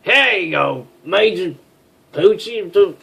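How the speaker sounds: high, loud presentation; announcing proudly. Acted. She presents breakfast to Major Poochie, loud and proud. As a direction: hand it over with a flourish. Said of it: "let me say it".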